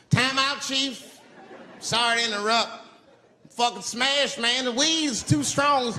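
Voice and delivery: high hysterical high-as-hell panic; high panicked freakout. Retold or imitated. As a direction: shriek that the spirits have you. Stoned narrator panics at chief.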